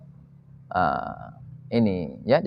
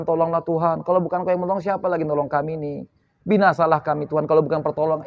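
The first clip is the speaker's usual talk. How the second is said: softer, humbly begging God for help; pleading prayer; 4 semitones lower, 6 dB quieter, faster than usual. Retold or imitated. Prophet quietly begging God for rescue, pleading. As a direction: plead quietly like a helpless servant. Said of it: "Memelas mereka sama Tuhan".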